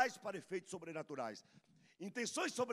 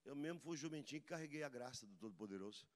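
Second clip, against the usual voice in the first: mock humble reply; 3 semitones lower, 4 dB quieter, faster than usual. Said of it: "Falar assim".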